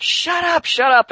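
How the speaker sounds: high-pitched mock tantrum yell; shrieky retold outburst; exasperated snap. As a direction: act out a kid villain snapping. Villain snapping at crying child.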